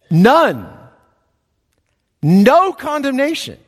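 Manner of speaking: preacher declaring it boldly; emphatic. Shown as a demonstration. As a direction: ring out "No" high and strong. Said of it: "very emphatic in the original".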